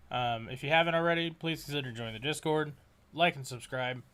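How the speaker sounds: stiff, mechanical outro read; robot voice. Real, not acted. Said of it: "you sound like a robot".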